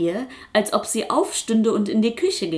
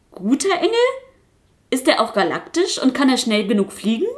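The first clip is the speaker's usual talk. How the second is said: eager puppet; 5 semitones higher, faster than usual. Acted.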